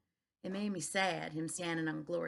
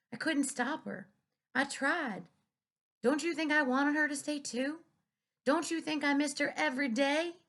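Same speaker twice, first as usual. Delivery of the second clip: higher, louder, grief-stricken plea; anguished father; 6 semitones higher, 4 dB louder than usual. A narrator's reading. Preacher to daughter about mama leaving, anguished. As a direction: pour out his own loss. Grieving father defends himself.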